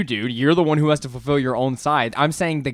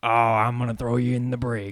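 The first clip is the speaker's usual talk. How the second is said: put-on menacing pirate captain voice; 2 semitones lower, 4 dB quieter than usual. Acting out a pirate in a made-up practice video: imitating a pirate. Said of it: "they're like".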